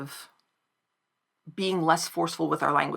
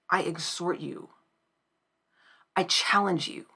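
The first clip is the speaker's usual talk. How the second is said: sincere plea. Acted. Earnest plea after parody.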